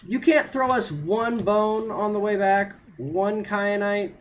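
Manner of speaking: high, loud exasperated begging; pleading complaint. Real, not acted. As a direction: beg the game, half joking. Begging the game for crystal.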